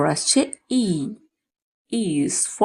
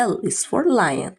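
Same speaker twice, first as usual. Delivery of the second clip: slow drill; much slower than usual. Shown as a demonstration. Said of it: "slow teaching drill".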